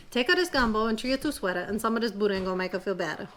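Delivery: storytelling in an imitation Cajun accent. Telling kids a Cajun tale in a Cajun accent. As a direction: read it like a Louisiana Cajun teller. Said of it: "my imitation Cajun accent".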